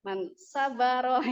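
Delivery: Man sabaro with a Javanese a; slow, mock Javanese reading; Javanese-accented Arabic. Shown as a demonstration. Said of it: "Bahasa Jawa dong".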